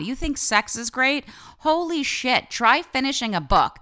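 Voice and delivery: high, loud gushing; squealing with excitement, high and loud; excited. Real, not acted. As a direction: rave about it like it's the best thing ever. Raving about finishing a book.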